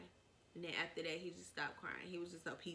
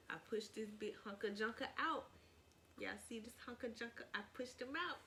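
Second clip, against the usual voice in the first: playful pride; 4 semitones higher than usual. Real, not acted. Proud joking about baby.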